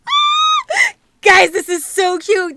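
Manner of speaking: high, loud, near-crying joy; delighted squeal. Real, not acted. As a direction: gush over it at full volume. Gushing over the gift.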